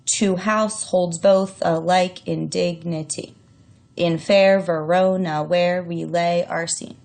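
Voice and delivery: slow, each second syllable of "Two households both alike in dignity" stressed da-dum; iambic stress. Shown as a demonstration. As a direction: tap out the heartbeat rhythm on every other syllable. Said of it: "you can kinda hear the iambic pentameter".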